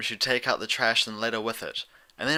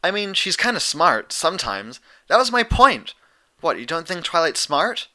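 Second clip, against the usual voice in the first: much higher, louder flustered defense; flustered outburst; 7 semitones higher, 7 dB louder than usual. A narrator's reading. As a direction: backpedal loudly, cornered.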